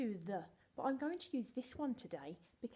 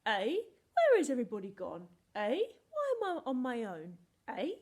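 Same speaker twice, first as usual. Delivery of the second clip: a loud lonely wail; hammed-up lonely cry; lonely lost wail; 10 dB louder than usual. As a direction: call out like a lost little word. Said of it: "like it's saying".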